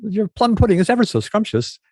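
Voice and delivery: high, dainty Victorian lady talk; high mock-genteel parlor voice; prissy proper voice. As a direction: mince it like a Little Women gentlewoman. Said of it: "that sort of talk".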